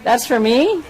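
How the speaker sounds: surprised. Real, not acted. Gets a surprise gift on camera.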